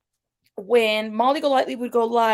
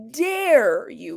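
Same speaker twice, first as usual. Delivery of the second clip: imitating her heavy, lingering stress on "Dare"; emphatic, deep "dare". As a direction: DARE drawn out long and falling. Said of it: "Really deep".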